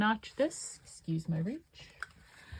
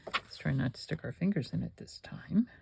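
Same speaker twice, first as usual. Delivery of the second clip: soft unvoiced whisper; 6 dB quieter than usual. Real, not acted. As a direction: whisper it to yourself. Whispered aside.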